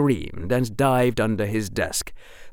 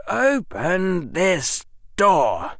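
demanding; 8 semitones higher, much slower than usual. A narrator's reading. Harry demands the door open.

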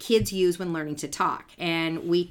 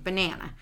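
"Banana" with a light, unemphasized first syllable; casual weak syllable; 4 dB quieter than usual. Shown as a demonstration. Showing how it's said when just talking, light "Banana". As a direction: say "Banana" softly, weight on the middle. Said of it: "when they're just talking".

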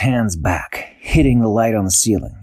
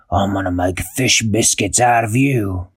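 troll threat. Acted. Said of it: "he said".

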